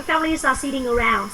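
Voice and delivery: "families are" run together without a break; linked reading. Shown as a demonstration. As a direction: link the words in "families are sitting around". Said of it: "đọc nổi".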